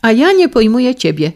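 high, loud exclamation; a wife crying out at her husband, high and loud; wife exclaims. Acted. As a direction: fire it straight back at him. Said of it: "zawołała żona".

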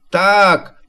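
high little piglet voice; small creature piping up; Prosiaczek. A narrator's reading. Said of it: "powiedział Prosiaczek".

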